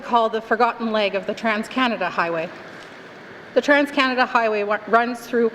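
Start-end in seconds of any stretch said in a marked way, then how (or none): 3.5-5.5 out of breath, catching air. Real, not acted. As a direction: speak while still out of breath. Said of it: "I'm catching my breath".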